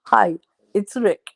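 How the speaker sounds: lightly mimicked Polish-accented greeting; a hint of halting Polish English; imitated Polish accent. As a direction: announce yourself like a Polish newcomer. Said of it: "he had no English".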